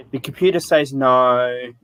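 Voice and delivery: deadpan bored clerk; dry monotone. Retold or imitated. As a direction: say it flat, like an uninterested clerk. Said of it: "in a dry monotone voice".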